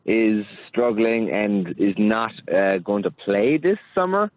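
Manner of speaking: rising lilt at the end on "summer"; uptalk. Real, not acted. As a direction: let "summer" lift like a question. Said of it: "you keep going up at the end of your sentence".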